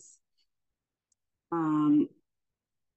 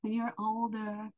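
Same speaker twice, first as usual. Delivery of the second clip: higher-pitched mimicking of doctors; mock doctors; 7 semitones higher than usual. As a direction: parrot the doctors in a raised voice. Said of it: "but the doctors kept going".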